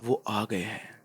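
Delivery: low, soft and ominous aside; hushed voice. A narrator's reading. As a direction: say it low, under your breath. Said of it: "धीमी सी आवाज में कहा".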